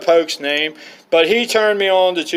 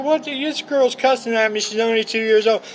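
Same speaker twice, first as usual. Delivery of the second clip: incredulous; 7 semitones higher than usual. Retold or imitated. Retells his shock at toddler.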